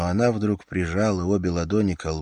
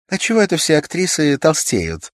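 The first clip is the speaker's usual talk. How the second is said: higher and louder idle chatter; raised voice; 9 semitones higher, 9 dB louder than usual. A narrator's reading. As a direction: raise your voice for the man next door. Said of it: "Она снова возвысила голос".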